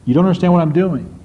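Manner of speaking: knowing smile in the voice, lightly voiced; fond chuckling reassurance, understated; smiling amused God. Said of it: "I can almost see God smiling, saying".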